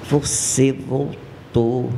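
low, slow, close menacing murmur; menacing voice in the ear. Retold or imitated. Torturer greeting her low and slow at the ear. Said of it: "uma voz me diz no meu ouvido, assim".

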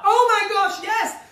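high, loud squeal of delight; excited squeal. Real, not acted. Host hears Sue Pollard could play her, thrilled high squeal. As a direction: shriek with joy at the idea.

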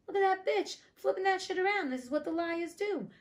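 outraged gossip about her; indignant. Real, not acted. Outraged at the stepmother.

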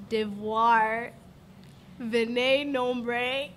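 "devoir, venez nombre" sounded out slowly in French; halting, drawn-out attempt at French on "devoir, venez nombre"; labored French pronunciation. Real, not acted. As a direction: struggle through "devoir, venez nombre" word by word. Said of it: "make a fool of themselves pronouncing some French words".

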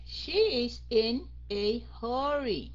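"she is in a hurry" slow, with "hurry" drawn out; careful model reading. Shown as a demonstration. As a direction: model each word, holding the vowel in "hurry". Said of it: "Cái âm O phải kéo dài".

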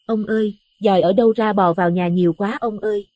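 high, loud panicked call to her husband; panicked shout. A narrator's reading. Wife screams to husband about maggots, high and panicked. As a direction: shout for help in terror. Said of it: "rồi hét lên lần nữa".

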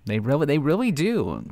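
sarcastic whisper; whispered sarcasm. Real, not acted. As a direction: whisper it as a sly aside. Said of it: "I'm being sarcastic".

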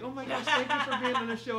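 high, loud, polished host voice; professional voice. Retold or imitated. Tyra Banks thanking her guest, polished high host voice. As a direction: switch back to polished host. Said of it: "really professional".

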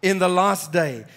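measured Bible reading to the congregation; scripture reading. Acted. Pastor reading John to the congregation, measured reading. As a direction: read the gospel passage with steady weight. Reads scripture passage aloud.

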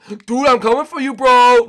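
high, loud mock rival voice; chasing rival's taunt. Rival chasing the leader, high shouted taunt. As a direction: holler a challenge as the pursuing player.

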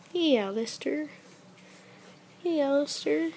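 high, cooing greeting; high sing-song hello to a pet. Real, not acted. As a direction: coax the pet sweetly in a high voice. Coaxing the pet by name.

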